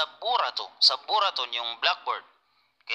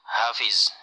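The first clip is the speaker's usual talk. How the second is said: whispered name; 3 semitones lower than usual. Real, not acted.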